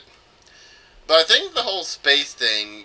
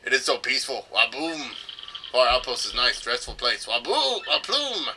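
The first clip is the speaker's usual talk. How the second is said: mock Russian accent; 3 dB quieter than usual. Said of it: "it wasn't a Russian accent".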